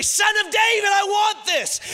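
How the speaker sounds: very high, loud shout; impassioned outcry. Acted. Awakened soul calling to the Son of David, impassioned shout. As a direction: burst out with a longing cry. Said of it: "leap up in you and say".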